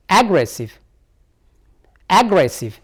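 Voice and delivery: "Aggressive" with an identical falling tune each time; "Aggressive" as a careful stress example; stressed-syllable demo. Shown as a demonstration. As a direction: show learners the stress in "Aggressive". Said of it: "So the stress lie on here now".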